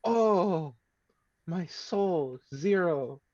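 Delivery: loud, high cry of dismay; dismayed exclamation. Real, not acted. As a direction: groan out the bad roll in disbelief. Reacting to a bad roll.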